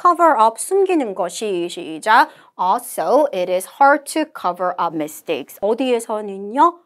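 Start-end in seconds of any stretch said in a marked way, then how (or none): 2.6-5.6 slow, measured English recitation; model read-aloud. Shown as a demonstration. Teacher models the conversation summary, slow deliberate reading. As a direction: read it out slowly, phrase by phrase.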